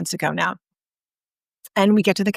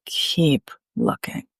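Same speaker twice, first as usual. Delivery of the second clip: measured coaxing; 5 semitones lower, 3 dB quieter, much slower than usual. Retold or imitated. Retold coaching, same urging repeated.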